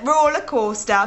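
attempted Newcastle accent, lightly done. Friends guessing accents, attempted Newcastle accent. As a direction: try a Geordie "roller coaster". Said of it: "roller coaster is apparently the one".

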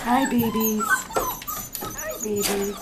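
high squeaky puppy greeting. Real, not acted. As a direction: squeal hello to the babies. Greeting puppies.

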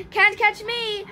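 high, playful tease; acted chase taunt; teasing taunt. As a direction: taunt like a cheeky little monster. Monster teases the chasing boy.

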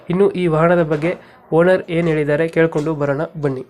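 even, continuous announcer read; scripted channel intro. Acted. Host welcoming viewers to the vehicle dealer channel, scripted announcer read.

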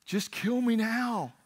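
high, drawn-out mock outburst; hammed-up despairing complaint; exasperated anger. Angry Jonah telling God he wants to die, hammed-up exasperation. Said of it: "Jonah gets angry again".

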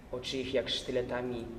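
ordinary delivery

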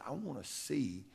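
low and soft, barely above a murmur; hushed retold coach; quiet, soft voice. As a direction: speak it softly, like a coach confiding. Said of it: "he spoke real quiet, real soft".

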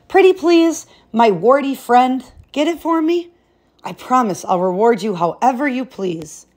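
high, sugary pleading princess; wheedling princess. Acted. Princess begging the frog for her ball, high wheedling. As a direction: coax the frog with sweetness.

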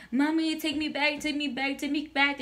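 mildly whiny mock begging; a touch of tearful kid pleading; retold crying plea. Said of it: "like, hysterical crying".

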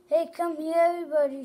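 calling a crowd, half-hearted; reader's mild shout. Acted. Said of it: "she shouted at the top of her voice".

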